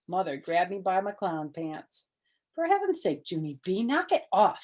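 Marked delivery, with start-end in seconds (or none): 2.5-4.6 yelling. Acted. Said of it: "she yelled".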